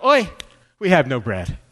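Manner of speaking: mock guilty groan, falling away after the "Oi"; comic Jewish-style lament; guilty kvetch. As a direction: kvetch it like guilt-ridden disciples. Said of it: "They're feeling so guilty".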